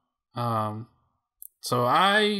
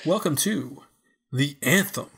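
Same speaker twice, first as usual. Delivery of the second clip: slow, drawn-out announcer whisper on the title; segment announcer; 2 semitones higher, slower than usual. Pretend. Host opening the Anthem segment, hammed-up announcer. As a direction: intone the show title with mock grandeur.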